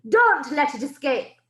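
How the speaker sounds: put-on a witch ordering the child destroyed; menacing witch. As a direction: order the kill with cold menace. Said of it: "screeched the Grand High Witch".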